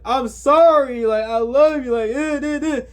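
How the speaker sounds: mock distraught pleading trailing into babble; mock whining. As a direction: drag it out like a bawling meltdown, mockingly. Acts out Nikki crashing out.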